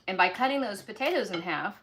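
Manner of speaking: talking with a mouth full; words round a bite of food. Real, not acted. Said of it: "I'm talking with my mouth full".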